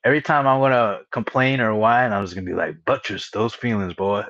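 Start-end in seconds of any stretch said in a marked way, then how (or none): 2.8-4.2 mock Southern drawl, slightly lowered; lightly put-on Southern drawl; deep Southern drawl. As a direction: playfully imitate a Southern gentleman's accent. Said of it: "deep Southern drawl accent".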